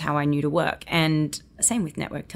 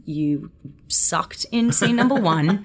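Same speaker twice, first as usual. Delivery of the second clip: self-scolding thought; 2 semitones higher, slower than usual. Retold or imitated. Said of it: "and I think".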